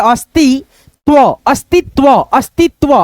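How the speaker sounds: अस्तित्व with dry त, अस्तित्-त्व; no puff on the त in अस्तित्व, double it before व; unaspirated t. Shown as a demonstration. Teacher saying the त sound will come, अस्तित्व unaspirated. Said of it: "त का ध्वनि आएगा".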